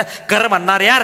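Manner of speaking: drawn-out shout, pushing the crowd; rousing shout. Real, not acted. Speaker urging the audience to speak up, with a slow rallying shout.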